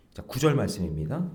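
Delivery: ordinary talk, nothing marked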